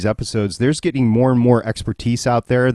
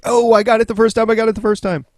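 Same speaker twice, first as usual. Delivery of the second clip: high, put-on eager voice; mock boasting; 12 semitones higher, 4 dB louder, faster than usual. Host teasing co-hosts who caught it first, mock boasting. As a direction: mimic your friends boasting in a much higher voice.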